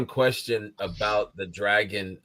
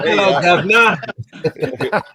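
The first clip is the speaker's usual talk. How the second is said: dragon voice; 10 semitones higher, 10 dB louder, much slower than usual. Acted. Joking dragon voice impression.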